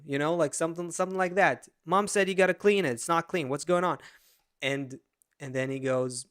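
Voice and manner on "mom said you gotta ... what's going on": lightly acted scolding father; a touch of mock annoyance, pressing for an answer; angry dad. Dad nagging son about his room, mock angry. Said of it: "the angry kinda".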